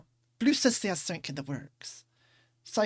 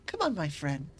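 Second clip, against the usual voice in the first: gremlin voice; 5 semitones lower, 8 dB quieter than usual. Acted. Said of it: "is a phrase that gets my gremlin".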